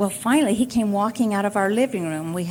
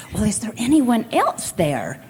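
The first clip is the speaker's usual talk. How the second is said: frustrated boss. Retold or imitated. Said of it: "he was very upset, frustrated".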